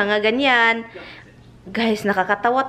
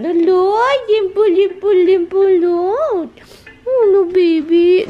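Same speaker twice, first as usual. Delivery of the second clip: high, louder urgent no-no; alarmed pleading; 8 semitones higher, 5 dB louder than usual. Real, not acted. Owner urgently stopping her cat Dimple, high and loud. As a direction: stop the cat in a hurry.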